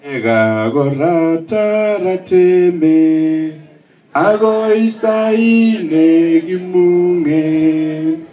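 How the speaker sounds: slow, weighty quoting of the words; solemn quoted message. Retold or imitated. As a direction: read the message very slowly and solemnly. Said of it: "Ko kitien tienindet kole".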